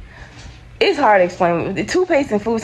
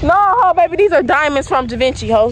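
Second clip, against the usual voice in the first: sassy loud comeback; 6 semitones higher, 4 dB louder than usual. Real, not acted.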